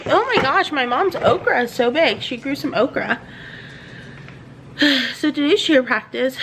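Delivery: normal talking voice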